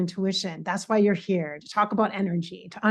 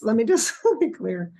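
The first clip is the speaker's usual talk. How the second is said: a real laugh breaking into the words; laughing at herself so she won't cry; 2 semitones higher than usual. Real, not acted. Vlogger to viewers, laughing at her own mess. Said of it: "I kinda gotta laugh at myself".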